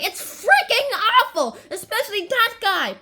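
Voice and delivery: high, hammed-up scorn; mock disgust. Puck judging the rehearsal, mock disgust. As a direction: play Puck appalled at terrible acting.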